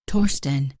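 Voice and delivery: high, cracking panicked shout. Acted. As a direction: yell it in a panic, voice breaking. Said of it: "the beta shouted, his voice cracking with unprecedented panic".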